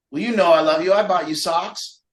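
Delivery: insistent, put-upon mock declaration; grudging obligation. Relative proving love out of obligation, mock insistent. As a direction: play love as a dutiful reminder. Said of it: "like it's an obligation".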